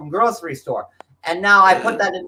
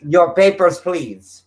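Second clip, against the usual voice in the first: mock German checkpoint officer; put-on German accent, word by word; 3 dB louder, slower than usual. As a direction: demand it in a stern German accent. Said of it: "that's very German".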